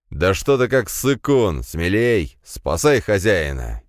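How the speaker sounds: bully him forward; irritated yelling. Acted. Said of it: "вжился в роль раздражённого Павла".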